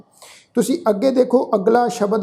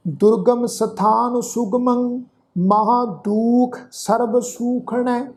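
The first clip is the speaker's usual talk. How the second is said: slow, sustained sacred verse; measured Gurbani recitation; scripture recitation; much slower than usual. Shown as a demonstration. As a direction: recite slowly, holding the long vowels.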